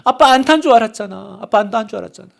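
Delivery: lightly voiced tearful little girl; a hint of a child sobbing into her dad's arms; retold child crying. Preacher voices a crying daughter hugging her father, lightly tearful. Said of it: "막 울면서 아빠한테 안겨요".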